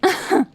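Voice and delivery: high loud laugh; delighted cackle. Acted. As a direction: burst out laughing. Laughs at the result.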